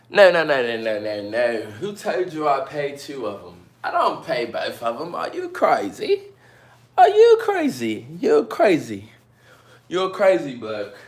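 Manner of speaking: high-pitched, loud mock disbelief; mock outrage. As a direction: protest as if the idea is absurd, voice jumping up. Acted outraged refusal to the viewer.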